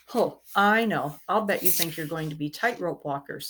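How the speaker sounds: scoffing. Acted. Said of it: "scoffed Robert".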